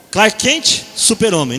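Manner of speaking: Clark Kent dito bem alto; demonstração de Clark Kent. Shown as a demonstration. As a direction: anuncie Clark Kent com força. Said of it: "a pessoa faz assim". (Clark Kent em voz forte)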